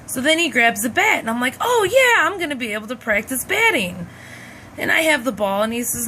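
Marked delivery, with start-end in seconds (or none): 1.6-4.1 put-on sudden joy, the child thinks she gets to bat; young daughter gleeful as dad picks up the bat; excited kid. Kid thrilled dad grabs bat.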